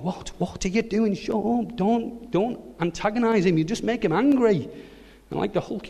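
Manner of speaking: high, strained, hushed pleading; squeaky mock-alarmed warning; panicked brothers. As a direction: beg him not to provoke the giant.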